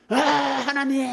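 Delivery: loud, high angry cry; angry outburst. Acted. Jonah starting to rage at God, angry cry. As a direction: yell up at God in protest. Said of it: "화를 내기 시작합니다".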